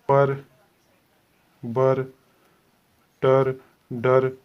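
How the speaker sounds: each syllable said alone, slowly and firmly; sound demo. Shown as a demonstration. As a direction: sound out पर, बर, टर, डर one by one with pauses. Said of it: "इस तरह की sound आएगी". (ध्वनि का धीमा प्रदर्शन)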